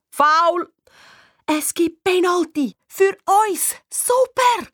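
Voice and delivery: high, excited exclamations; rising glee at winning a penalty; thrilled match commentary; jubilant. A narrator's reading. Penalty awarded, narrator jubilant.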